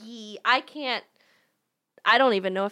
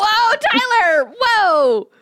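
surprised; 10 semitones higher, 5 dB louder, much slower than usual. Real, not acted. Surprised at Tyler appearing.

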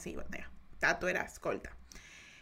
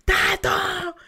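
calling out; 8 semitones higher, 7 dB louder than usual. Retold or imitated. Relative calling the boy.

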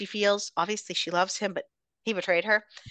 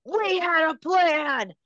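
slow, higher, hurt accusation; a hint of an accusing villain; 7 semitones higher, much slower than usual. Recapping a drama, mildly acted betrayed villain. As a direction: lean on each word, betrayed.

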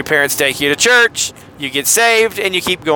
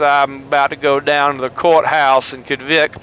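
put-on wealthy Mississippi accent; 3 semitones lower than usual. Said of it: "more of a wealthy person from Mississippi".

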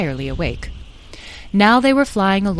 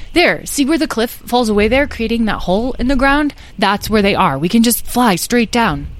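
lightly voiced eager boy, raised pitch; eager young guide; 5 semitones higher, 4 dB louder than usual. Tom shows the dragons where the mermaids are, eager. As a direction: point the way keenly.

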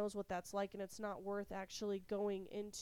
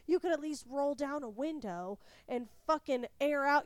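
raised-voice, insistent complaint; retold scolding; 4 semitones higher, 7 dB louder than usual. Wife demands fresh air from sick husband, annoyed. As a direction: press the demand louder and higher.

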